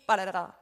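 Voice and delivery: fumbled piano run. Retold or imitated. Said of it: "이렇게 나온 거예요".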